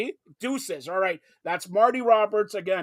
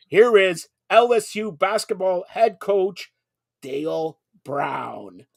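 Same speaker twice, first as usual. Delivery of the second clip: announcer intro; slower than usual. Acted. Introducing the star guest.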